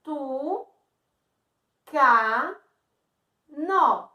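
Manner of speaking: TU, CA, NO with pauses, CA and NO loud; counting syllables. Shown as a demonstration. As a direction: punch each separate syllable: TU, CA, NO. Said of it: "primeira sílaba".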